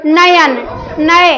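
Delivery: नयन then नए, drawing out the अय sound; teacher sounding out a word syllable by syllable; sounded out slowly. Shown as a demonstration. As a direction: stretch नए so the अय sound is heard. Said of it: "अब इसको आप बोल के देखो".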